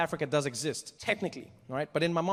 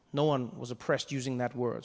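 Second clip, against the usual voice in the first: usual speaking voice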